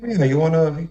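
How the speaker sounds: imitated goading, pitch jumping up on the jabs; mock bashing. Host bashing a girl with doubts, imitated scornful goading. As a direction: lightly mimic a host egging someone on with scorn. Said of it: "he bashed her, like".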